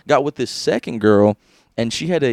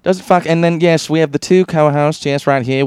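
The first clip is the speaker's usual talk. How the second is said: game show host; 4 semitones higher, 4 dB louder than usual. Pretend. Co-host joins show intro.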